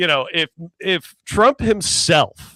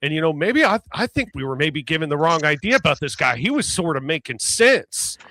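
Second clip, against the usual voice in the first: Southern accent imitation. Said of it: "Southern States maga guy".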